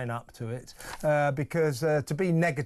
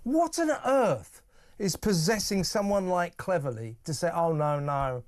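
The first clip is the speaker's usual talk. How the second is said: orate like a pompous politician; generic politician impression. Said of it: "it's my generic politician impression".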